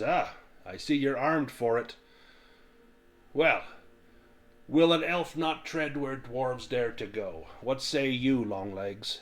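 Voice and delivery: lightly voiced goading dwarf; challenging dwarf. Dwarf goading the elf to join, lightly voiced. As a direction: needle the elf playfully.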